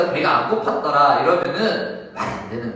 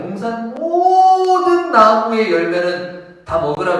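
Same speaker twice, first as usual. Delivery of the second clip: slow, chanted, louder and higher; intoned scripture; 7 semitones higher, 9 dB louder, slower than usual. Shown as a demonstration. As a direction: lift the verse like a chant. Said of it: "성경 구절을 읊음". (높고 느리게 읊조리는 성경 구절)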